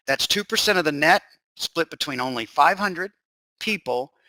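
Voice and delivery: deliberate restatement with pauses before key words. Shown as a demonstration. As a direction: go over it slowly, pausing before PEOPLE. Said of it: "If I said that too fast, I'll go over it again".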